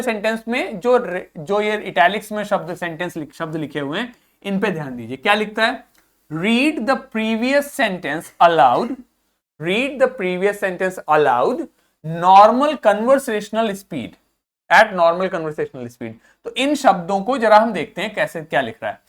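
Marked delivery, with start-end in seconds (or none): 6.3-16.1 slow, measured reading of an English example; careful read-aloud. Shown as a demonstration. Teacher reading the book's sentence to students, slow careful read-aloud. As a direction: read it out slowly, word by word.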